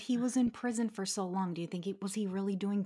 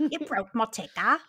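country twang imitation; 6 dB louder than usual. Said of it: "It's a little Amy".

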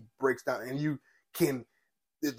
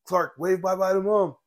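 a hint of a dad talking to his toddler; gentle dad voice; 6 semitones higher, 3 dB louder than usual. Jonathan Kent filming his son, a light gentle dad voice. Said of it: "And he's like".

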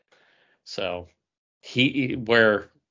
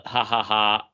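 mock Bizarro laugh. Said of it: "he has to laugh".

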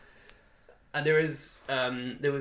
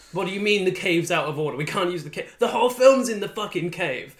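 rising frustrated outburst, louder at the end; 5 semitones higher, 6 dB louder than usual. Retold or imitated. Crew member on a rushed shoot, yelling in frustration. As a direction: blurt it out, exasperated. Crew panic about the cave.

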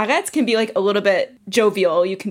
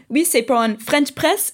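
higher, tentative order in French with English "French press"; retold French request, pitched up; speaking French; 4 semitones higher than usual. Customer describing it to the guy at the counter, retold in French. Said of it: "I was just like".

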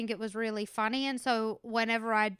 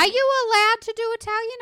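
surprised; 10 semitones higher, 8 dB louder, faster than usual. Real, not acted. Surprised question.

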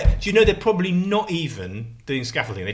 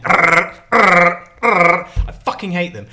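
angry outburst; 4 semitones higher, 7 dB louder, much slower than usual. Real, not acted. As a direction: spit out the hate. Ranting about the scaffolders.

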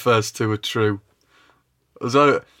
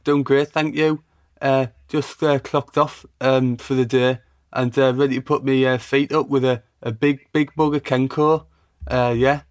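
impression of a rapper; 2 semitones higher than usual. Pretend. Host fakes an interview answering as the rapper, light put-on voice. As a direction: play the star answering a pretend call. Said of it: "hello, Tyler. How are you?".

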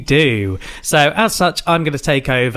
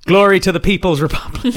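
booming ideological slogans; 5 semitones higher, faster than usual. Pretend. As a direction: proclaim it like a party slogan. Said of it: "that little bit of weirdness".

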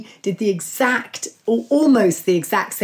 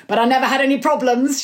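lightly voiced friend's quote, raised pitch; higher, lightly imitated woman's reassurance; Barbara; 5 semitones higher than usual. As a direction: quote her breezily in a higher voice. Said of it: "she reckons".

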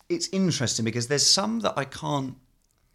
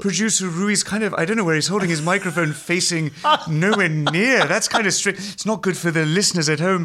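Louis Theroux; 3 semitones higher than usual. Acted. Carries on Louis impression about the producer.

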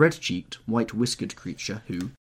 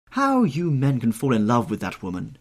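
put-on louder, indignant old lady; exclaiming; 4 semitones higher, 6 dB louder than usual. A narrator's reading. Old lady puzzled at men's infatuation, exclaiming. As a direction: exclaim in lively disbelief. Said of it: "exclaimed the old lady".

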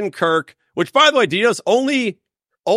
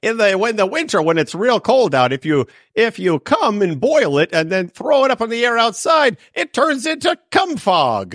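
put-on Minnesota accent; 6 semitones higher than usual. Continues Minnesota voice.

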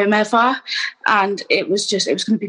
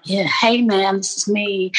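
put-on weird American accent. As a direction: imitate yourself doing an odd American voice. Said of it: "in this really weird American accent".

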